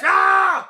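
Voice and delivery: power-up shout; demonstrated yell. Acted. Teacher demonstrating for the pupil, shouted yell. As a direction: show how to yell. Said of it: "Like this!".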